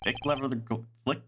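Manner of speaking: tripping over Thick leather gl-, cut off mid-word; tongue-tied stumble. Real, not acted. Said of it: "Why is that so hard to say?".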